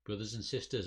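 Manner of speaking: formal address with a hint of age; elderly announcer. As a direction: announce it to a gathered lodge. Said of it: "an elderly voice announces".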